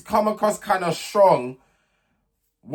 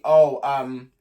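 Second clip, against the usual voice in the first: very calm. Retold or imitated. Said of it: "Very, very calm tone of voice".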